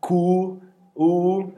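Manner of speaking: careful deliberate spelling; spelled letter by letter. Shown as a demonstration. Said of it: "Você é".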